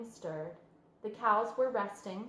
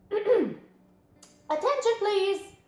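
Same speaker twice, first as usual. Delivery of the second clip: loud, drawn-out, firm announcement; loud firm call; 11 semitones higher, 9 dB louder, much slower than usual. A narrator's reading. Wilbur calling out loudly to the hidden friend. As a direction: call out to the whole barn firmly. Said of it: "he said in a loud, firm voice".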